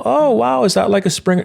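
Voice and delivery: high, eager voice asking about the dog; mock-curious passerby. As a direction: play a bright, eager stranger. Passerby guessing the breed.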